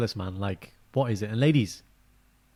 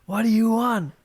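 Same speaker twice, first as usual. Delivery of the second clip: much higher, bright mock boyfriend asking; guy in the meme asking his girlfriend, mock-impatient; 11 semitones higher, 4 dB louder, slower than usual. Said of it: "basically it's like".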